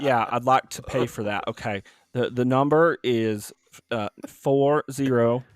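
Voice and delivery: slow, put-on Southern phone voice; lightly faked Southern drawl. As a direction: draw out the words with a mock Southern accent. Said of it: "Southern drawl".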